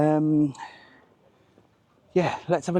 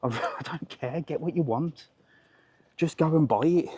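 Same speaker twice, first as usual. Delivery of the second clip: indifferent husband; 4 dB quieter than usual. Retold or imitated. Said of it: "I'd be like".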